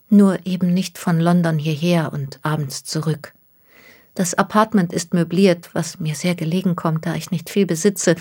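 anxious young woman, lightly voiced. Miss Takahashi explains her move.

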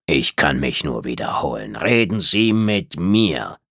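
kühl und von oben herab, langsam; herablassende Reptiloidin. Acted. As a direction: lass sie jede Silbe überlegen auskosten. Tretzab bleibt kühl. (herablassende Außerirdische, leicht angedeutet)

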